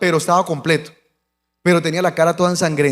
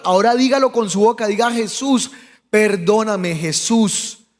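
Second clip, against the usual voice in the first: insistent lead-in to a repeat-after-me prayer; urgent prayer prompting; 3 semitones higher, slower than usual. Retold or imitated. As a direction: prompt him to say it aloud. Guía al herido en la oración. (guía insistente de oración)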